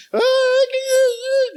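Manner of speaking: very high, drawn-out mock sob; mock bawling. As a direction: imitate an old man wailing. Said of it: "o velho chorando é feio com força". (choro escandaloso de velho, imitado)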